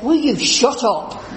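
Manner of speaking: slow, laughing through it; half-laughing mock shut up; laughing retold snap. Richard quoted, fed up.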